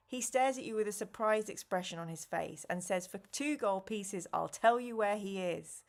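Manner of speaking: even storybook read-aloud voice; story narration. A narrator's reading. Streamer reading the adventure aloud to chat, narrating. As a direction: read the gamebook to the listeners.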